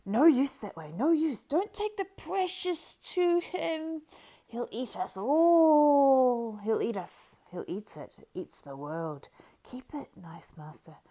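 high, pleading creature voice, slow in places; distressed Gollum. A narrator's reading. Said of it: "seemed in great distress".

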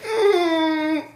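high, hesitant hum through a laugh; laughing, unconvinced. Retold or imitated. Reluctant hum while laughing.

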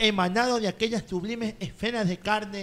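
lightly formal, courtly recital; mock-poetic recitation. Guest reciting his flirty post, mock-poetic declamation. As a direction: declaim a flowery love poem. Recites flowery poem aloud.

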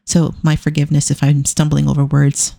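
talking with a dry mouth; sticky, dry-mouthed speech. Real, not acted. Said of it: "I have the worst dry mouth tonight".

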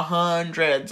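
HUNDREDS drawn out low, as if to an idiot; condescending. Retold or imitated. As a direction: imitate talking down on "Hundreds". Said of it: "I was stupid".

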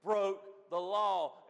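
half-hearted imitation of a hollering preacher; mock holler, drawn out slowly on the last words; retold holler. Quoting the excited pastor from the pulpit, mock hollering. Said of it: "and then he's hollering".

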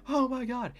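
high-pitched re-enacted squeal; squeaky fan freak-out; overexcited gasp. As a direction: act out giddy disbelief, way up high. Retelling overexcited fan reaction.

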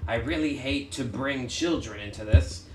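slow, deliberate letter reading; reading a letter aloud. Acted. Player reads villain's note to the party, slow and deliberate. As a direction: read out the villain's note slowly and formally.

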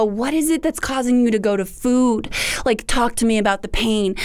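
gentle, kind. Acted. The Lord asking about the pain, gentle and kind. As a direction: ask it gently, with kindness. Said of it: "in his gentleness and his kindness".

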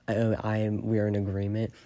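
ordinary talk, nothing marked

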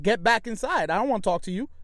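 retold dismissive order; giving attitude. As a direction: brush him off with some attitude. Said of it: "I gave him an attitude".

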